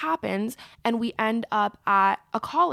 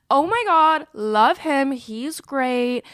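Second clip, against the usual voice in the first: high, loud burst easing off; acted gushing; 3 semitones higher, 4 dB louder, much slower than usual. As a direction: imitate someone raving about a favorite. Dean gushing about favorite alum.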